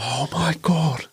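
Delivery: mildly panicked begging, reenacted; retold plea for help.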